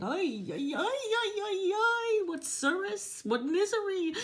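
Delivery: high, loud wailing complaint; hammed-up high kvetching with a sob; kvetching mother. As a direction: moan like a Jewish mother nobody calls. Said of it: "here's how she's kvetching".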